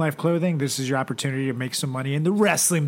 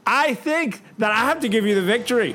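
hyped announcer verdict; 6 semitones higher than usual. Acted. Host declares winner.

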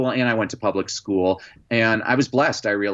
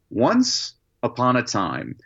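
finally reading it right; slower than usual. Retold or imitated. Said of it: "and I read".

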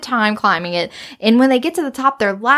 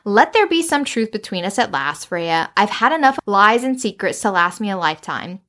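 earnest, lowered demand for honesty; serious and assertive; 3 semitones lower than usual. Acted. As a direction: press for the truth in a low, serious voice. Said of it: "being very serious about it".

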